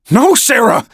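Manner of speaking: high desperate shout. A narrator's reading. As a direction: cry out to stop her. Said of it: "I shouted".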